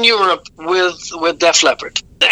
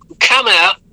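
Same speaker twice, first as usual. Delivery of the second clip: quoting a musician; 2 semitones higher than usual. Retold or imitated. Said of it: "and I'm gonna quote him".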